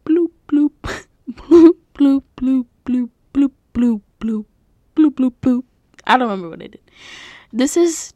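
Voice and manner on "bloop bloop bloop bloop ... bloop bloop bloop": giggly, louder water-drip bloops; dripping water sounds. Pretend. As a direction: redo the bloops, laughing through them. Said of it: "Let me start over".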